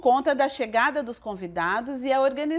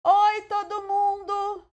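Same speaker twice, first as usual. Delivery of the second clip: cheerful; 9 semitones higher, 3 dB louder, slower than usual. A narrator's reading. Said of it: "um alegre".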